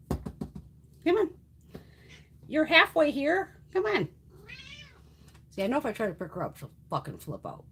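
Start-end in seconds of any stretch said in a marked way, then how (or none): 0.1-4.1 much higher, slowed encouraging coax; high drawn-out encouragement to the cat. Real, not acted. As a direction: cheer the cat across the gap. Coaxing the cat.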